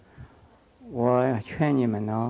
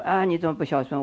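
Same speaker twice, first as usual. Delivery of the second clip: mock reproach; 3 semitones higher, faster than usual. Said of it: "我不要叫他们一定说".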